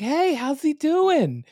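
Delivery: high, slow lisping voice; a drawn-out goofy falsetto; silly put-on voice. Host voicing neighbor Roy asking about the husband, goofy lisp. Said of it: "I don't know why I'm using that voice".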